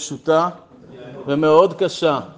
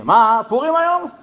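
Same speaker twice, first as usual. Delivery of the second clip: higher, rising incredulous question; mock astonishment; 6 semitones higher, 4 dB louder than usual. Rabbi teasing the officer in uniform, mock astonishment. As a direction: tease with a rising, disbelieving lilt.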